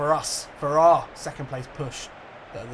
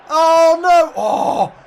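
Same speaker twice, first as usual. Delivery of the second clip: loud, much higher oh no; alarmed cry; 13 semitones higher, 14 dB louder, much slower than usual. Real, not acted. Gamer panicking as a ball flies into his box, alarmed. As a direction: gasp it in panic.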